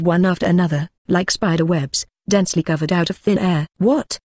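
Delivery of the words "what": startled cry. A narrator's reading. Shocked marine sees cracked air.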